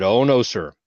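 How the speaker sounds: unload on the officer in mild retold anger; a touch of a furious tirade; retold chewing-out. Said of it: "I chewed his ass".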